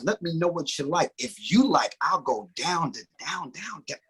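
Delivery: dramatic, sensual recital of a singer's lyrics; dramatic reading. Acted. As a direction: read the lyrics like a seductive poem. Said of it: "give a dramatic reading".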